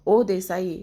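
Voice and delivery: loud shout across the yard; mock-angry shout at the neighbour; calling out. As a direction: yell the neighbour's name to provoke him. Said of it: "आग लावलेली असते आणि ओरडत असतो".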